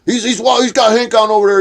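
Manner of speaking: high, loud, stammering mock tattling; Snafu Snaps. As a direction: blurt it out like a flustered snitch. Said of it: "Snafu Snaps run over and goes".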